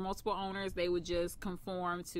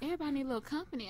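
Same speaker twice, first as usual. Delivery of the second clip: imitating grandfather; 5 semitones higher, 4 dB quieter, much faster than usual. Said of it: "That's how my grandfather talks".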